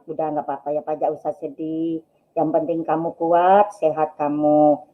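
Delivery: low, soft reassurance; retold comforting. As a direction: quietly soothe a hurt husband. Wife consoling her sad husband.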